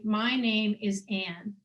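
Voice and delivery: slow, deliberate "My name is Anne"; slow model statement. Shown as a demonstration. Facilitator showing her own example, slow and deliberate. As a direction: say "My name is Anne" slowly, giving each word weight. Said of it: "So for me, it would be".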